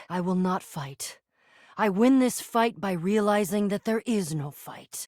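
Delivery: low, measured resolve; calm refusal. Acted. Hero refusing to fight an alter ego, calmly.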